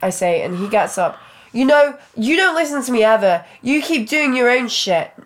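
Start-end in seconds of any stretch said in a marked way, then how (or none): 1.5-5.1 raised angry voice; angry yelling. Acted. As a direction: snap at her, loud and high. Boyfriend yelling at her.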